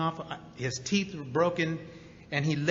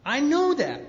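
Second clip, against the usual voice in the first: "know" punched high and loud; emphatic repeat; 10 semitones higher, 6 dB louder, slower than usual. Real, not acted. Admitting he was drunk, loud emphatic insistence. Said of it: "I was physically drunk".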